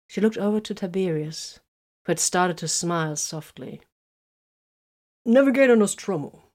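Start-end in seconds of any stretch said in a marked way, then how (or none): 5.2-6.4 polite. A narrator's reading. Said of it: "inquired politely".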